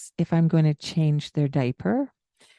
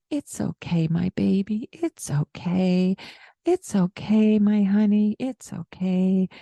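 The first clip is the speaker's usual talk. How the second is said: put-on soothing toddler. Shown as a demonstration. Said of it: "going into that".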